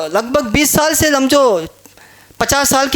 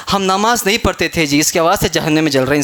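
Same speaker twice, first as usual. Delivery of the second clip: confessing sinner; 8 semitones lower, faster than usual. Acted. Voices a burning sinner's answer.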